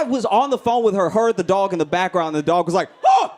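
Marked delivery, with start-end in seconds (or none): 3.0-3.3 sudden high screamed "oh"; short, loud, very high shriek; human-like dog scream. Retold or imitated. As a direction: yelp it like a startled person. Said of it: "It just screams human screams".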